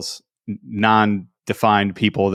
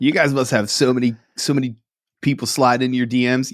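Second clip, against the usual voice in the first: mock fan voice; 3 semitones higher than usual. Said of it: "That's my favorite thing ever".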